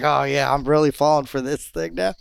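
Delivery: mild mocking scepticism; sarcastic disbelief. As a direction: imitate a mate refusing to be fooled. Acted disbelieving reply to the yelling.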